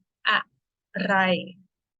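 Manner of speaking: อะ low tone, ไร flat tone, each syllable held apart; อะไร sounded out tone by tone. Shown as a demonstration. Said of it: "Low tone and this is flat tone".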